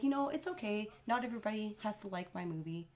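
soft, unbothered reassurance; very calm. Retold or imitated. Actor answering an angry audience member at his Q and A, very calm. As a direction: imitate someone calmly shrugging off criticism. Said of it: "he was just very calm".

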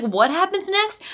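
high, drawn-out question; exaggerated lost-viewer wail; mock bafflement.

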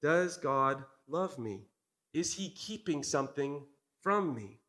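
slow, wondering questions in a lightly voiced Eve; Eve doubting. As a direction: ask it as if doubt is creeping in. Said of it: "she begins to question".

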